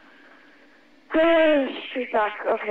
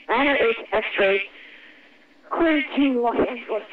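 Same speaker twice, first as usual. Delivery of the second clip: crackly military radio. Real, not acted. ATC clearance read over radio.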